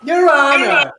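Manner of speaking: pompous courtroom lawyer. Acted. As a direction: argue like a TV defence attorney.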